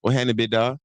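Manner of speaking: imitated Atlanta drawled greeting; Atlanta accent. Showing how they always greet in Atlanta, Atlanta accent. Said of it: "in Atlanta, they, it's always like".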